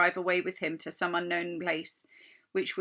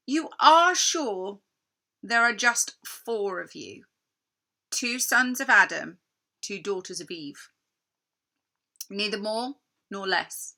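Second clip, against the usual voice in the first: slow, louder, insistent queen; probing queen; 5 dB louder than usual. Acted. Queen presses Edmund about the four children, slow and insistent. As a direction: press him, slow and pointed.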